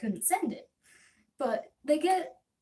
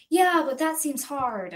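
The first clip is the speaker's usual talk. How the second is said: slow, louder whiny clerk; whiny reluctance; 4 semitones higher, 6 dB louder, slower than usual. Retold or imitated. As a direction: drag it out reluctantly.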